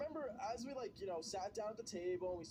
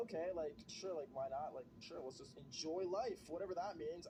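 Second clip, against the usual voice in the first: sarcastic inner voice; 3 semitones lower than usual. Retold or imitated. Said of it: "I'm thinking".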